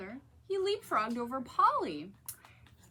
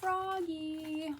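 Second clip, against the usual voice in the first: mom calling; 6 semitones higher than usual. A narrator's reading.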